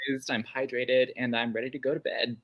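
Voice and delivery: slightly lisped through a retainer; wearing a retainer. Real, not acted. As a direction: talk with a retainer in. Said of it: "so my retainer is in".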